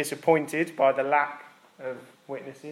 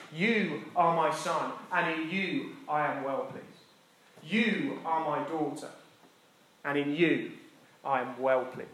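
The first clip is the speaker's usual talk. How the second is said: slow and gentle, fading softer; slow tender blessing; 4 dB quieter, slower than usual. Acted. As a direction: bless each listener personally. God speaks over the congregation.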